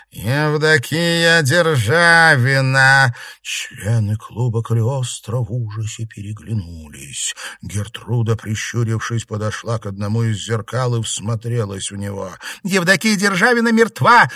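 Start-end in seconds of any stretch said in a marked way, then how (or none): 0.1-3.1 slow, loud, high ghostly name; ghost announcing herself. A narrator's reading. Ghost in the mirror announces her name in a slow loud voice. 12.6-14.3 high, loud angry outcry; angry shout. A narrator's reading. Щергина shouts angrily at the ghost in a high loud cry. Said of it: "зло выкрикнула Щергина".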